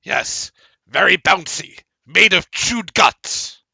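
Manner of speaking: high, loud squeaky voice; deadpan it in the little voice; creature reply. Acted. Ghoul telling the players there is no sun, high squeaky voice.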